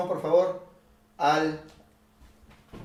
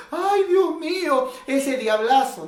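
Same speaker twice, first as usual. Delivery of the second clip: high, slow wailing mother; mock lament; 9 semitones higher, 4 dB louder, slower than usual. Preacher mimicking a mother crying over her lost son, wailing. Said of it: "la mamá llorando".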